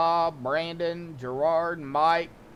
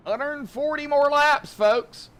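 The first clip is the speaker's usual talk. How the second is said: mock dread; 11 semitones higher, 5 dB louder than usual. Real, not acted. Dreading long race, mock announcing.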